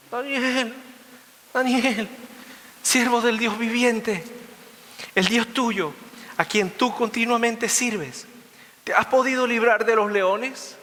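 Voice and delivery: high, drawn-out mournful call; acted plaintive king's cry, slow and high; sad calling voice. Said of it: "llamó a voces a Daniel con voz triste".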